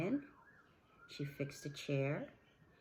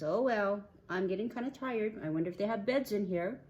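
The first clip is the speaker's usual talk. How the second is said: lightly voiced girl, higher and louder; a higher musing voice for the girl; Goldilocks; 6 semitones higher, 6 dB louder, faster than usual. Goldilocks getting tired and wanting a bed, musing.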